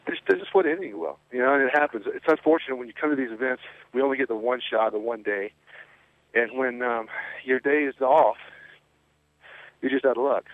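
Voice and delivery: winded, short of breath between phrases. Real, not acted. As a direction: talk while still catching your breath. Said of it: "Sorry, I'm out of breath".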